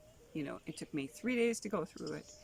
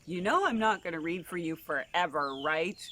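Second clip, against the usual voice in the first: put-on bossy girl; 6 dB louder than usual. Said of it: "she said".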